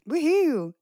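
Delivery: high-pitched celebratory whoop; cheering. Real, not acted. Host welcoming a guest from Tennessee, high cheer. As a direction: cheer it, voice jumping up.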